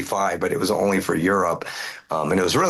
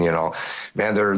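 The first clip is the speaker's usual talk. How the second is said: usual speaking voice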